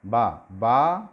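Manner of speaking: बा with both lips pressed then released, said twice; bilabial demo. Shown as a demonstration. Teacher showing students बा made with both lips. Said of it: "ये होठों से होता है ये वाला".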